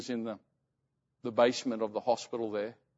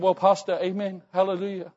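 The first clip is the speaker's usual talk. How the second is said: imitated devout mother, higher pitch; praising God; 5 semitones higher, 3 dB louder than usual. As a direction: lightly act out her fervent praise. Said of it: "she was praising God".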